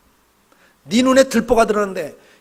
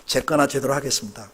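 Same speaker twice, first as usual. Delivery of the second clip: humble confession; 7 semitones lower, 5 dB quieter than usual. Shown as a demonstration. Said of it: "옆에 있는 분에게 한 말씀 하세요".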